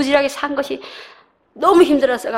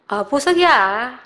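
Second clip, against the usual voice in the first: calm and unmoved; slower than usual. Shown as a demonstration. Finding a jewel and staying calm about it, slow and flat-toned. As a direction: say it slowly as if it were nothing special. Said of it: "그냥 이러고 있는, 있겠어요?".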